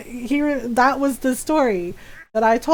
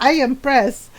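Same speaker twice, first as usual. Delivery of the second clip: put-on accented Filipino mom telling off her son; imitating scolding mom. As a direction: mimic a mother's stern, deliberate threat. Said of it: "she do my voice very well".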